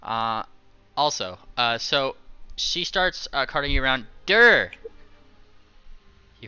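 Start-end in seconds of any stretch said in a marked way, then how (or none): 4.2-4.7 goofy creature grunt. Acted.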